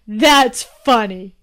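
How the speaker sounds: slow king voice. Acted. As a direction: say it slow, amused. King amused by the joke.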